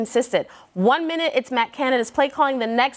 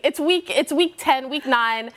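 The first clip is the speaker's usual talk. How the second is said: ordinary talk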